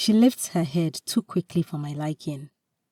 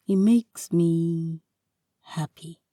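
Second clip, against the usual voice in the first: sincere; slower than usual. Acted. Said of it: "I tell her sincerely".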